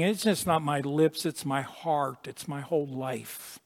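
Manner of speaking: mild, hushed voice of Isaiah; hushed confession. Retold or imitated. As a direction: let it fall quiet and broken. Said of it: "what Isaiah is really saying".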